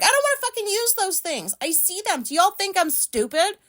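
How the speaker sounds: retold outburst. Retelling her outburst at clerk.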